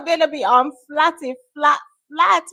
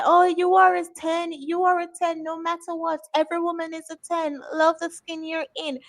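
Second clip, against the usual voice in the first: mocking gush; 5 semitones higher than usual. Mocking gushing commenters.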